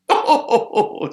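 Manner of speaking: high, loud sparrow "oh". Acted. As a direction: react as a little bird. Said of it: "says the sparrow".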